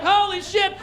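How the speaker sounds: high-pitched frantic orders; hammed-up terrified teenager; mock panic. Teens trapped as attacker reaches car, mock panic.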